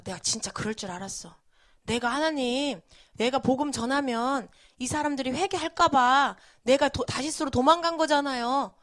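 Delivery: mildly whiny mock grumbling; grumbling complaint. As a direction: grumble like a sulky prophet, lightly acted. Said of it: "막 이러면서 투덜거리면서".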